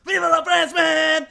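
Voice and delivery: put-on loud shouted odd accent line; mock French-ish accent. Host mimicking the actor's odd accent, shouting. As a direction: bark it in a strange new accent. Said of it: "this is a new accent".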